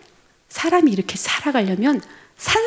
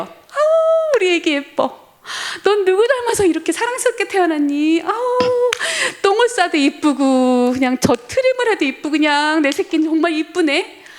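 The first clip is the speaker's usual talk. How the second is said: put-on high, gushing baby talk to a newborn; doting mother; 7 semitones higher than usual. Mother gushing over her newborn baby, high and delighted. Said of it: "엄마가 그렇게 아기를 보고 막 신기해해요".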